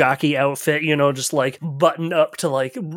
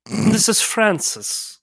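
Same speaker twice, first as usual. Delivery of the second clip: snooty jockey voice; 4 semitones higher, slower than usual. Acted.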